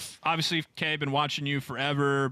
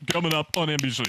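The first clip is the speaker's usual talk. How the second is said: Al Michaels sign-off; much faster than usual. Retold or imitated. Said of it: "Al Michaels talking about a singer".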